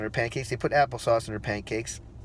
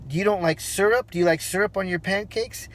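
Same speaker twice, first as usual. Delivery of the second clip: higher-pitched, lightly voiced teacher questions; teacher questioning child; 5 semitones higher than usual. Daycare worker asking crying toddler, lightly voiced teacher. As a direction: check with a small child, pitched up.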